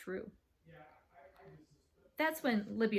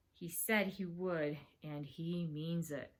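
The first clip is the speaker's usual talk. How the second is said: slow, sinking worry; grim dread; 3 semitones lower, 4 dB quieter, slower than usual. Acted. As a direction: say it gravely, dropping low and soft. Host grimly fears brother's threat.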